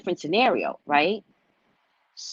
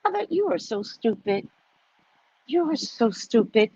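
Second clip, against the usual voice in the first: secret contempt; 4 semitones higher than usual. Acted. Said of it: "All the while thinking".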